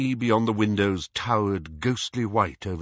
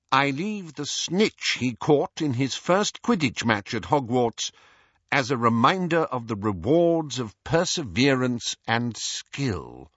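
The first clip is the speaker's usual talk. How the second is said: lightly voiced formal official, slightly raised pitch; Scrimgeour reading a will; 3 semitones higher than usual. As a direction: read out the bequest, falling on the last word. Scrimgeour reads the will aloud.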